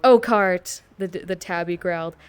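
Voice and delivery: lightly voiced angry tabby cat; Warrior Cats read-along tone. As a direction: hit the words like a dramatic audiobook. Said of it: "in the exact tone of S S's Warrior Cats".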